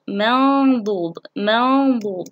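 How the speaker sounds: slow منضود with long nasal noon; ikhfa demonstration. Shown as a demonstration. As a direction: hum the noon before the ض of منضود. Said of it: "حرف الضاد". (إخفاء النون بغنّة ممدودة في منضود)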